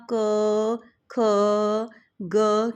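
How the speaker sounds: क, ख, ग each held long on its vowel; isolated, stretched क, ख, ग with long gaps; full-vowel letters. Shown as a demonstration. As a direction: draw out क, ख, ग one at a time. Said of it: "इनको ऐसे क्यों नहीं पढ़ा".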